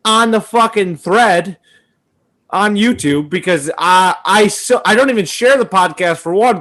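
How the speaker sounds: lightly mocking dim friend; mocking impression.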